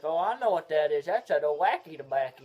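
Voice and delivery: a hint of loud old grandpa; imitating grandpa. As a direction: announce it like a knowing grandpa. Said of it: "and he's like".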